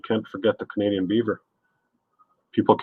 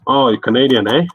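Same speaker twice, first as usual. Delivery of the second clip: mocking smart aleck; 4 semitones higher, 5 dB louder than usual. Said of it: "there's always a smart ass that says".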